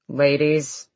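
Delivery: forced through clenched teeth. Acted. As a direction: grit it out through your teeth. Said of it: "said through clenched teeth".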